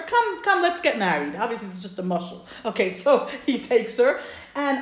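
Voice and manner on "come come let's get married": eager urging. Retold or imitated. Eager groom dragging bride along.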